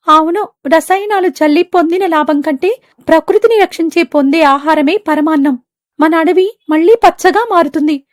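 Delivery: high, earnest little bird voice; hopeful bird. Acted. Birds vowing to protect the forest. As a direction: promise a green future.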